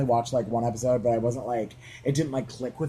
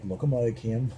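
imitating a sitcom mom's Australian accent; Australian "look at moy". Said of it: "Your Australian accent is good".

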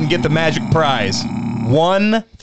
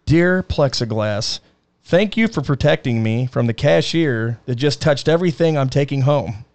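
slow letter reading; 5 semitones lower than usual. Pretend. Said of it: "let me write this letter".

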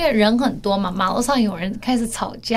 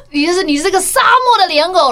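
high laughing retelling of the insult; retelling the husband's insult while still laughing, voice up; 6 semitones higher, 4 dB louder than usual. Real, not acted. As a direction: giggle through the line again. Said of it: "我讲错了".

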